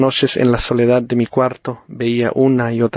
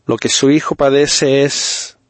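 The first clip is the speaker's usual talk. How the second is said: médico solemne; 2 semitones higher than usual. Acted. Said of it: "con inspirado acento".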